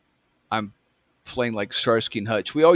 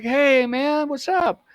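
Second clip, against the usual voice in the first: high-pitched cool-cat voice; cool dude; 12 semitones higher than usual. Retold or imitated. Cool dude greeting the new kid behind the counter, imitated high. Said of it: "he's a pretty cool, cool dude".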